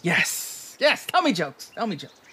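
a strange creature begging to be amused; eager character voice. Acted. Character demands jokes.

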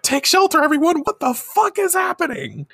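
high, frantic crowd screaming; mock panicked scream. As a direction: shriek it like a fleeing fan. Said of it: "everyone's screaming".

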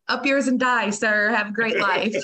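send-up of a polite farewell; mock cheery sign-off. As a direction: toss it off like a cheery goodbye. Mock sign-off, then laughs.

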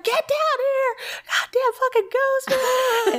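high, hammed-up furious holler; retold yelling. Fed-up mother orders kids down, high acted yell. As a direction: re-enact screaming at the household, breaking into a laugh. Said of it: "yelling back and forth".

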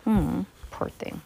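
usual speaking voice

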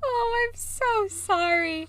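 high slow giggly apology; laughing sorry. Real, not acted. Apologizing to Shannon while still giggling high.

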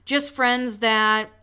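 drawn-out words left hanging unfinished; retold trailing off. Podcaster retelling her unfinished answer, slowly trailing off. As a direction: stretch it out and leave it dangling, imitating her. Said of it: "again, gets really quiet".

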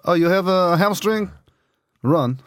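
high, slow mock-coach voice, drawn out; a hammed-up coach who never lets you stop; mock French coach. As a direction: lampoon a relentless coach barking orders. Mocking French coaches' training talk.

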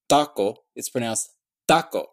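taco first with an alveolar t, then with a dental t; English then Spanish taco. Shown as a demonstration. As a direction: contrast the two t sounds in taco. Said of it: "with the tongue tip at the teeth".

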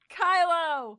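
loud high hammed-up cry of Kylo; loud grunt of name. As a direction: belt the name out as a mock grunt. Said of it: "You grunted".

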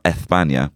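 España with a lisped th, Spanish way. Shown as a demonstration. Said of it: "pronouncing things absolutely correctly".

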